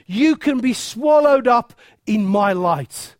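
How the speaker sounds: a rising shout on light; booming proclamation. Acted. Preacher voicing Jesus to the crowd, ringing shout.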